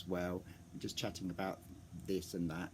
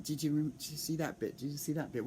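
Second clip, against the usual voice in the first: higher, eager gushing questions; excited fans; 5 semitones higher, faster than usual. Retold or imitated. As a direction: imitate fans buzzing after the show. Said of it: "excitedly saying".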